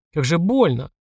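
ordinary delivery, nothing marked

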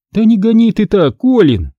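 snapping at driver. Acted. Aunt scolding her husband for driving fast, loud snap. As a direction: bark it at the reckless driver. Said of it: "бросила дядя тётя Марта".

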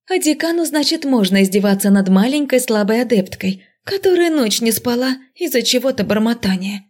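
hammed-up tearful complaint, starting high; fake sob. Student guilt-tripping her dean, faked tearful whine. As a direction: put on a whiny pretend-weepy voice. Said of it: "всхлипнула я".

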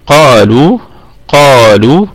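"قالوا" with a heavy qaf and thin "lu"; light lam. Shown as a demonstration. Teacher modelling for students, "قالوا" with light lam. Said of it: "نراعي ترقيق اللام".

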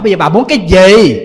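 a gentle monk finally getting tough; stern demand. Retold or imitated. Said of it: "bà làm tới thì giữ lên". (giọng nghiêm khắc, lớn tiếng)

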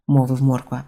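usual speaking voice

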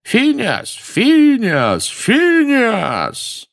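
high shouted name, repeated; shouting. A narrator's reading. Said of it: "стали выкрикивать его имя". (выкрикивание имени хором)

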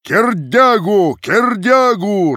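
slow, high, loud drawn-out chant; loudest shout. A narrator's reading. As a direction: stretch the name out over everyone. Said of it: "раздавалось сильнее прочих".

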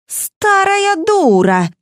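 рявкнуть на старуху, теряя контроль; barking insult. A narrator's reading. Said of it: "рявкнула Валентина". (злобно рявкнуть)

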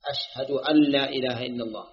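أشهد أن لا إله إلا الله with each hamza cleanly sounded; careful adhan diction; clear hamzas. Shown as a demonstration. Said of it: "يبين الهمزة".

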